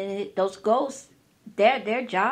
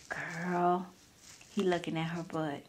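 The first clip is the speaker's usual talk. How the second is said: insecurity's quiet voice; 3 semitones lower, 8 dB quieter than usual. Retold or imitated. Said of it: "some just whisper".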